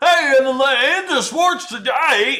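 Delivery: put-on sports announcer drawl, high, very slow. Speaker mocking a guy's TikTok video; fake TikTok sports voice. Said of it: "he's like doing some fake voice".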